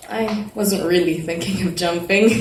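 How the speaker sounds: laughing it off. Acted. Laughing off the jumping worry.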